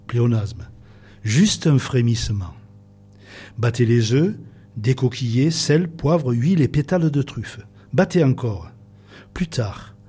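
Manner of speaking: slow, measured recitation with long pauses; poem reading. Acted. Guest reciting a Delteil-style truffle recipe on air, poetic reading. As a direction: read each instruction like a line of poetry.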